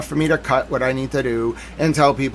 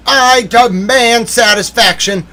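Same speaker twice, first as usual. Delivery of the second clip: slow, raised, grandiose demand; mock outrage; 7 semitones higher, 7 dB louder, slower than usual. Aggrieved viewer demanding satisfaction from government, mock outrage. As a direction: declaim it like an offended gentleman. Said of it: "I'm mad".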